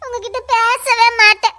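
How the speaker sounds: put-on scared girl vowing through tears to stay away; tearful refusal. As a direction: draw the words out through sobs. Frightened girlfriend refuses to meet.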